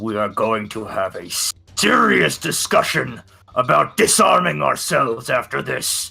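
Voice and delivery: through clenched teeth. A player's character, as a free action, speaks to the party through gritted teeth. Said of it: "through gritted teeth".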